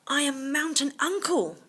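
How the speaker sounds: a lightly voiced tiger; tiger speaking. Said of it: "the tiger said".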